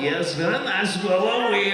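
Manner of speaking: put-on quick foreign-accented caricature; Borat. Comic listing voices for wife, goofy accented impression. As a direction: slip into goofy thick accent. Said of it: "I could be Borat".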